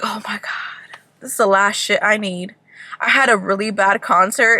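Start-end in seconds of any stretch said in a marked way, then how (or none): 0.0-2.5 hushed whisper to herself. Retold or imitated. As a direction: whisper it so the driver won't hear. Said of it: "I'm just like".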